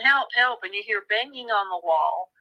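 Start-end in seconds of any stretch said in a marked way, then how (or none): 0.0-0.6 mild mock yell for help; lightly acted shout of help, higher; retold yelling. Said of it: "She just keeps yelling".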